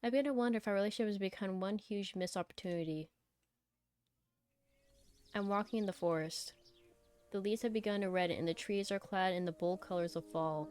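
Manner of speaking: measured first-person story reading; story narration. Acted. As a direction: read the story out evenly. Reads the game's story aloud.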